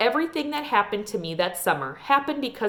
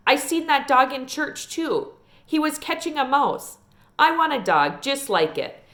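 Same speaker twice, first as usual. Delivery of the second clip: put-on little girl Sweetie Pie; 2 semitones higher than usual. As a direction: talk like a chatty five-year-old girl. Child Sweetie Pie voiced.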